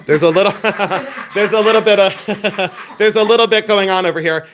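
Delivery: keeps cracking up mid-sentence; laughing. Real, not acted. Joking to viewers about the slander dispute, laughing.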